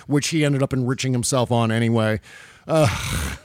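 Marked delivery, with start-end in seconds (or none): 2.7-3.4 exasperated ugh; disgusted groan. Real, not acted. Host sickened by the failed businesses, exasperated groan. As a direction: let out a fed-up groan.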